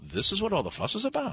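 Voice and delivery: a lightly voiced Jewish accent where an Irish one was meant. Imitating Northern Irish audiences in a mild Jewish accent. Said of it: "now I'm doing a Jewish accent".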